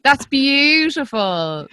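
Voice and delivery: slow, high, hushed "That's beautiful." drawn out with feeling; tender awe. Real, not acted. Host savouring guest's words, slow tender awe. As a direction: let "That's beautiful." linger, slow and moved. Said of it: "that made me totes emotional".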